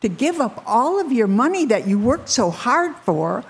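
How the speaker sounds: high, swinging incredulous protest. Retold or imitated. Rich man balking at giving up his money, incredulous. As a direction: voice disbelief, pitch leaping up at the end. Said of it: "He couldn't believe it".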